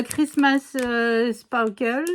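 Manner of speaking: French-accented English, stretched out; super English accent. Real, not acted. Vlogger naming a flower collection to viewers, French-accented English. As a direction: attempt English words with a thick French accent. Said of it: "vous entendez mon super accent anglais".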